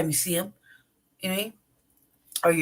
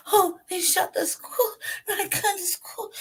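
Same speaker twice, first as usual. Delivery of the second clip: much higher, slow, laughing and crying; mock distraught teacher; 14 semitones higher, slower than usual. Mocking teachers shocked by a school shooting: high, slow, laugh-crying. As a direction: ham up a sobbing overreaction.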